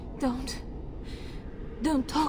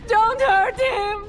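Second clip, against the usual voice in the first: higher, louder, crying out stop; desperate crying shout; 9 semitones higher, 7 dB louder, slower than usual. Acted. Mother begging for her son's life, crying shout. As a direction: scream for them to spare him.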